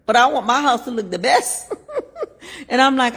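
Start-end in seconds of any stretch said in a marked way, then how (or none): 0.1-2.7 laughing. Real, not acted. Laughs while telling the prayer.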